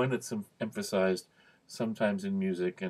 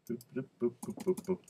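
little boop noises; 3 semitones higher, 5 dB quieter, faster than usual. Real, not acted. Fills time while putting words up.

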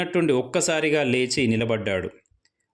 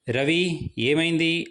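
firm, raised call, higher; a bit loudly; 4 semitones higher, slower than usual. Acted. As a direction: ask a little louder, insistent. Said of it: "అన్నాడు నరేష్ కాస్త గట్టిగా". (కాస్త గట్టిగా)

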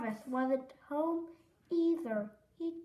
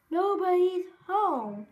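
put-on high, louder kid's complaint; complaining cry; 5 semitones higher, 6 dB louder than usual. Froggy complaining to Mom, high cry. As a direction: raise it into a child's protest. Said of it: "cried Froggy".

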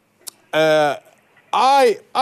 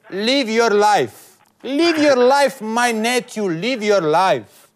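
quoting the rich uncle; 5 semitones higher than usual. Retold or imitated. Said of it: "He, he told me".

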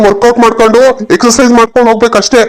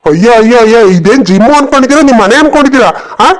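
mildly angry telling-off; acted irritation, voice slightly raised; annoyed. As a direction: scold them in exasperated disbelief. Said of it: "ಅದಕ್ಕೆ ಯಾಕೆ ಸಿಟ್ಟಾಯ್ತೀಯ".

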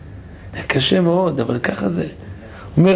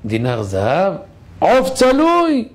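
street vendor call; 3 semitones higher, slower than usual. Acted. Beggar calling out in street.

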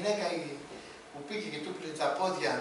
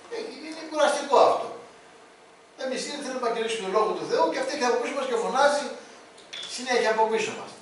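exasperated complaint; 3 semitones higher, 6 dB louder than usual. Acted. Disciples complaining about the woman.

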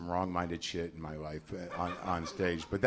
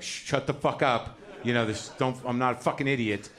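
inner rage; 3 semitones higher, 4 dB louder than usual. Retold or imitated. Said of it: "that's what's going on in my head".

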